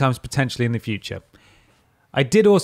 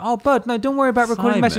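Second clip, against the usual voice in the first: much higher, fast and doting; high fond reply; 11 semitones higher, faster than usual. Retold or imitated. Host retells telling a friend not to worry, high and gushing. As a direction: gush reassurance in a high voice. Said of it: "And I was like".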